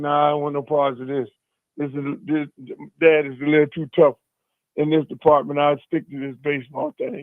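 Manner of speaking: ordinary talk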